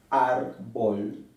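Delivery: árbol, first syllable ÁR held and stressed. Shown as a demonstration. Teacher repeating árbol to show its stress. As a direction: lean on ÁR in árbol. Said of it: "se acentúa en la penúltima".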